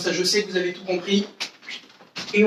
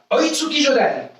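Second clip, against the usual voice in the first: higher, called-out technique name; announcing the attack; 5 semitones higher than usual. Shown as a demonstration. Karate teacher leading the class, calling out the attack name higher. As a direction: call the attack for the class to echo. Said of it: "Annoncez l'attaque avec moi".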